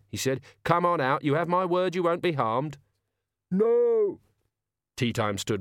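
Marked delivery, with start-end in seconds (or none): 0.6-2.8 higher-pitched, lightly acted reassurance; coaxing villain. Villain coaxes guard out. 3.5-4.2 high, loud cry from a distance; frightened refusal. Acted. Cornered guard refuses to come out.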